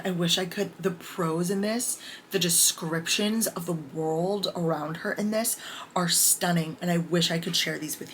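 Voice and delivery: hushed whisper about the prose. Real, not acted. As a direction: breathe it out as a secret. Gushing over prose she can't share.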